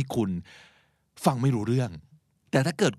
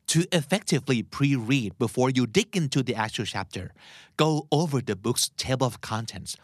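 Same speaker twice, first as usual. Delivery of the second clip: slow, careful read-back of the clip's English; much slower than usual. Shown as a demonstration. Teacher slowly re-reads the clip line for Thai listeners, careful and unhurried. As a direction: spell each word out slowly for learners. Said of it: "เราควรทำการอ่านชั้นแรกแบบคร่าวๆ".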